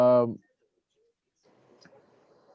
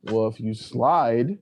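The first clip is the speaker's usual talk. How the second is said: slower drawl; much slower than usual. Shown as a demonstration. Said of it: "slower retake of the line".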